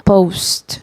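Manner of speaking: Post ending on a dry t, no vowel; English post. Shown as a demonstration. Teacher modelling the native Post. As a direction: stop Post on the T, no added i. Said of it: "não vai acrescentar nenhuma vogal".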